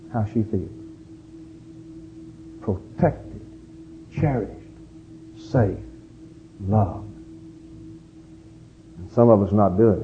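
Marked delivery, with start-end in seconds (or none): 2.6-7.1 soft, slow words one by one; a tender, quiet list; hushed. Real, not acted. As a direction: let each word land softly. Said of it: "naming how wives feel".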